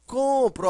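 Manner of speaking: "Compro" with COM punched high and loud; "Compro", loud high COM falling away; stress on COM. Shown as a demonstration. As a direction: hit the first syllable of "Compro". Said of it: "a sílaba mais forte é com".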